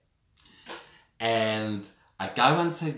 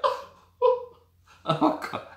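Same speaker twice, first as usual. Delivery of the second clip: horrified whisper; 5 dB louder, much slower than usual. Retold or imitated. Lying in cell, horrified.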